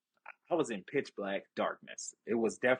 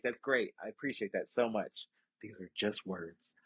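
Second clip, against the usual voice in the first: quiet pleading; 3 semitones lower, 6 dB quieter than usual. Retold or imitated. Retold plea, fading quiet.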